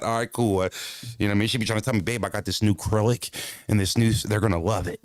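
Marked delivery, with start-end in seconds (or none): 2.0-5.0 lightly voiced suburban wife; a hint of a suburban girl; mock white girl. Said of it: "why you making her sound like that".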